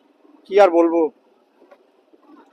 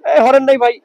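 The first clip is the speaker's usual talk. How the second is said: calling out; 2 semitones higher, 5 dB louder than usual. Real, not acted. Calling out to traffic from bike.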